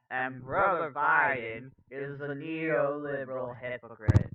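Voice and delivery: joyful, rolling orator's lilt; easygoing preacherly impression; Cornel West. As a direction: say it with a little joyful spin. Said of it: "put a little joyful spin on it".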